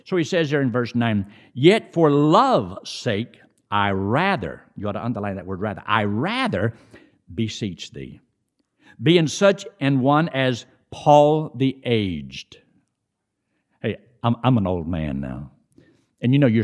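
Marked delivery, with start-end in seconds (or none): 1.5-12.6 slow, solemn reading; scripture reading. Acted. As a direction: read the verse slowly and solemnly.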